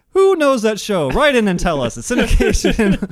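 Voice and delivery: loud, high TV promo plea; announcer voice. Pretend. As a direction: pitch it like a hyped show host. Mock announcer call-in plea.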